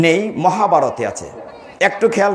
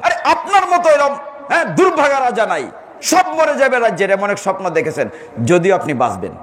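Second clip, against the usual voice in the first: lightly voiced fortune-teller blurting out doom; blunt astrologer. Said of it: "জ্যোতিষী গণাটনে গেনে বলল".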